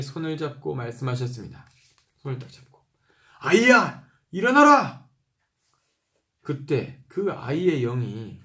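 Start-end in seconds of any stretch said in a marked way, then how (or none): 3.4-5.1 put-on loud, high call to wake the girl; commanding call. Pastor voicing Jesus calling the girl to rise, loud and high. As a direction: raise the voice high to call the child up.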